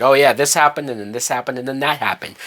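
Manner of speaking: imitating offhand, tossed-out exposition; mock throwaway dialogue. Reviewer mocking a film throwing out dialogue, offhand and dismissive. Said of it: "He's just throwing out dialogue".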